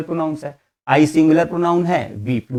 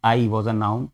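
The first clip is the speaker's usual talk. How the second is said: each word set out slowly; slow model sentence; 4 semitones lower, much slower than usual. Shown as a demonstration. Teacher reading a model sentence slowly to students. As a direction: read the example slowly for the class. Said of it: "जैसे कि".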